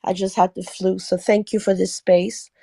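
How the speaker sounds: hoarse, sore throat after flu. Real, not acted. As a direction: talk carefully through a sore throat. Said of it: "I apologize for my voice. I have a sore throat".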